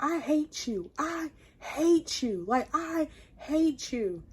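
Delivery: high, soft, drawn-out mock whine; tearful protest. Woman punching boyfriend's chest, retold as soft high whine. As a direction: act out hurt words on the edge of tears. I just start sobbing.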